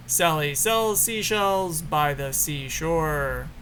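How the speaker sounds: measured, deliberate tongue-twister recital; mic-test recitation. Shown as a demonstration. Speaker testing the camera's audio with a tongue twister, measured recitation. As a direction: recite it slowly in repeating rise-and-fall tunes.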